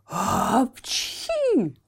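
hammed-up high sneeze. A narrator's reading. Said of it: "с треском чихал".

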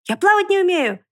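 высокий громкий крик страха; кричи от испуга; испуганный крик. A narrator's reading. Поросёнок в испуге отвечает. (поросёнок испуганно кричит)

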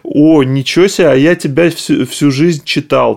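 retold surprise, voice lifted on the questions; lightly acted amazement of a fan; imitating amazed readers. Readers discovering who writes under the nickname, mock amazement. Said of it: "достаточно много людей, которые такие".

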